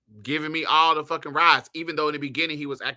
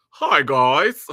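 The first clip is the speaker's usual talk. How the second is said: a loud, sweet churchy hello; church lady greeting; 8 dB louder than usual. Pretend. To the audience, a loud sugary church-lady hello. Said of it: "come in with that church respect".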